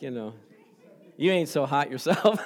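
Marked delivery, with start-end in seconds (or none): 1.2-2.4 laughing through a playful jab; teasing wife, laughing. Retold or imitated. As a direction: toss it back at him with a laugh. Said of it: "giving me that smile like".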